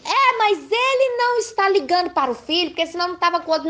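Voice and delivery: imitating a bitter ex-wife complaining about the father, high and whiny; mocking bitter wife. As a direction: mimic the jealous wife's whine.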